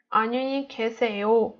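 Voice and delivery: "안녕히 계세요" leaning on the final 요; stress on yo. Shown as a demonstration. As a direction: run quickly through "안녕히 계세요" to a stressed last syllable. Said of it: "for yo".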